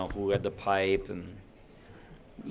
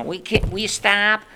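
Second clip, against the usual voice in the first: higher pleading annoyance; begging him to stop; exasperated family; 10 semitones higher, 4 dB louder than usual. Retold or imitated. Family begging the kid to quit the noise, higher and exasperated. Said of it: "everybody was like".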